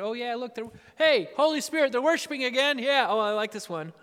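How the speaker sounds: lightly voiced, offhand chatter; a hint of bored God; casual onlooking God. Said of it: "looking down at those people in Hearst going".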